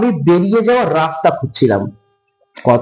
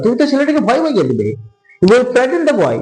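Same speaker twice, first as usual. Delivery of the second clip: mock shout; 5 semitones higher than usual. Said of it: "আমি চিৎকার করে বললাম".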